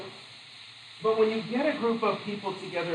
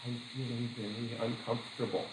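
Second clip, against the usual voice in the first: deadpan aside; 5 semitones lower, 10 dB quieter than usual. Retold or imitated. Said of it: "he looks at me and goes".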